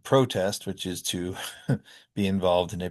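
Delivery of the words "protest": PRO-test, full O in the first syllable; first-syllable stress. Shown as a demonstration. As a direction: land on PRO in protest. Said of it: "we get a new verb".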